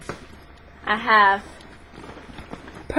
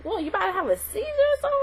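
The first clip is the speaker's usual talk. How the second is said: mock alarm; 11 semitones higher, 3 dB quieter, faster than usual. Bully alarmed at shaking fist.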